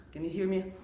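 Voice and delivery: breathy ocean breath while talking; whispery breath voice. Shown as a demonstration. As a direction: speak over a throaty whisper. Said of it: "like whispering something".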